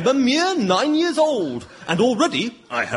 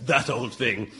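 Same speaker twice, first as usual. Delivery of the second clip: mock modest; 10 semitones lower, slower than usual. Modest Shakespeare.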